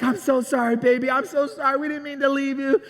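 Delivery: acted apology to a little one; soothing apology. Dad holding daughter he left behind, soothing apology.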